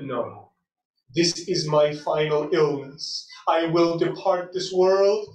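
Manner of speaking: low, slow, resigned words from a deathbed; solemn dying declaration. Acted. Dying Imam declares his end.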